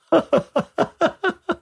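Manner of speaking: high bitter laugh. A narrator's reading. Young woman laughing bitterly at the stranger's claim. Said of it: "ضحكتها المريرة".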